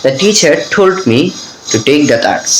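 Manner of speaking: slow, with puffed t in "teacher", "told", "take"; aspirated T drill. Shown as a demonstration. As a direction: model "told" and "take" with air after the t. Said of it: "আবার এভাবেও বলতে পারেন". ("teacher", "take"-এ ঠ দিয়ে উচ্চারণ)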